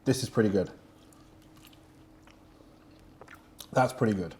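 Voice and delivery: talking while licking fingers. Real, not acted. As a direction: mouth busy licking sauce off fingers. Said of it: "I'm even licking my fingers here".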